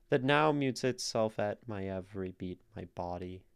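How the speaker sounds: "That now mutes itself at my every beat" in alternate beats; "my every beat, my body" in strict da-DUM; forced iambic reading. Shown as a demonstration. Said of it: "if we try to read it iambically".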